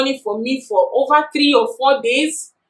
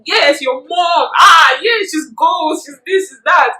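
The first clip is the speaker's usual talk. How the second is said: excited classmates; 5 semitones higher, 5 dB louder, slower than usual. Retold or imitated. Classmates praising her mom.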